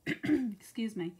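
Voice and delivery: normal talking voice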